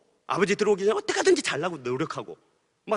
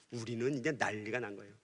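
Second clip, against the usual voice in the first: much softer and lower, held-breath telling; hushed dread; 11 semitones lower, 16 dB quieter than usual. Retold or imitated. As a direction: drop to a near murmur as the kids freeze. Kids tremble as brother returns. (숨죽인 듯 아주 낮고 조용하게)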